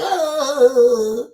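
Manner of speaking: long, loud fake wail; hammed-up sob on one drawn-out vowel; mock weeping. Telling Charles to weep into the Gulf, mock wail. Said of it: "just start weeping like".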